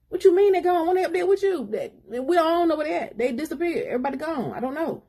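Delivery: alarmed questions. Acted. Group panicking over the missing friends.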